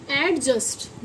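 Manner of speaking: „एडजस्ट” as AD-just, d before j; d sounded. Shown as a demonstration. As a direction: pronounce a separate d in एडजस्ट. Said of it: "इसे हम एडजस्ट पढ़ते हैं".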